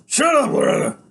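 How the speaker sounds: high, loud angry snap; snapping biker. A narrator's reading. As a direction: snap at her. Iggy snaps.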